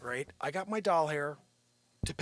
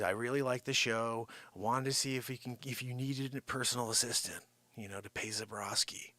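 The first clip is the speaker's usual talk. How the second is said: lightly voiced assistant, lower and softer; Joanne; 5 semitones lower, 5 dB quieter than usual. Imitating the assistant asking for a job, low voice. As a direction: drop low and quiet, imitating her. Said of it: "This is exactly how she sounds".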